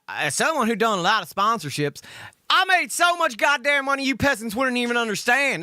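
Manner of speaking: lightly mock a snooty bragger; exaggerated self-important brag; mocking her boast. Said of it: "That's what I hear when she says".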